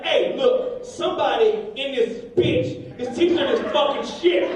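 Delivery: heated, emphatic complaint; angry outburst, drawn out for emphasis; mad parent. Retold or imitated. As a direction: lay into the teacher angrily. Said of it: "So I get mad".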